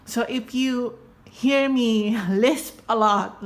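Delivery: lisping around dental retainers. Real, not acted. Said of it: "just what I did".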